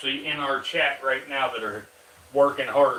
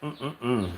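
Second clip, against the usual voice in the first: yawn; 3 dB quieter than usual. Real, not acted. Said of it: "Can't quit yawning tonight".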